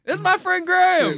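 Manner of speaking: put-on American accent. Testing the American way of saying Graham, lightly accented. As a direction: play an American introducing a friend. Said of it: "with an American accent".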